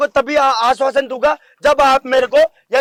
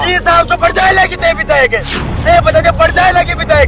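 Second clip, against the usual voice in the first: heated, raised voice; angry warning; 3 semitones higher than usual. Real, not acted. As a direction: warn the politician in front of the crowd. (गुस्से में चेतावनी)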